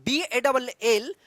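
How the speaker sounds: slow teacher spelling of बी ए डबल एल; spelled out letter by letter, slow and clear; spelling out slowly. Shown as a demonstration. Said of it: "को बॉल क्यों पढ़ते हैं".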